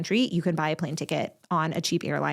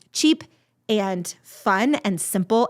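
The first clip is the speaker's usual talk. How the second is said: excited; much slower than usual. Real, not acted. Upbeat list of date ideas.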